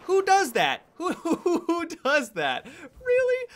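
high, loud indignant cry; outraged disbelief. Real, not acted. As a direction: squeal in offended shock. Outraged at C4 trap.

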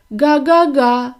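slow, loud honk like a horn; a car honking its goose horn. Acted. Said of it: "промовив автомобіль".

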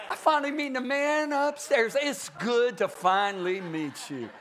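jokey fanboy greeting; mock casual greeting. Joking casual greeting to God.

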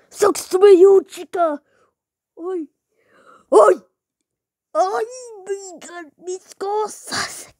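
a Spanish-speaking animatronic with loud outbursts; Spanish-accented character. Acted. YouTuber voices a Spanish animatronic, sassy then wailing. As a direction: play her sassy, then wailing over her things.

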